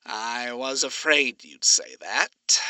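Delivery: slow, put-upon sigh through a smile; mock groan. Alistair reluctantly accepting Charlie's deal, mock groaning. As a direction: groan in jest at the request. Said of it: "He groaned behind a tight smile".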